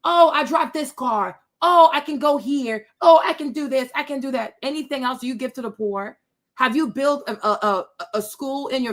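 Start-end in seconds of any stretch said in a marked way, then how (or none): 0.0-4.5 bragging mock. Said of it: "she's not used to money".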